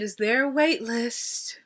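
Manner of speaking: slow, sweetly dramatic ask; polite wait-list ask. Shown as a demonstration. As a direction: ask it with a little drama but nice. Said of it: "you gotta say it like that".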